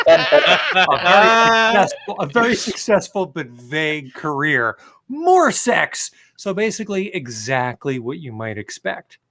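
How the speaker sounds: amused, rising read with laughs; reading a snarky review aloud. Acted. Reading his own snarky review to friends, amused. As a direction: read a mocking review, enjoying each jab.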